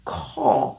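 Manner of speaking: "Call" rounded, rising. Shown as a demonstration. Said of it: "Je ne dis pas call".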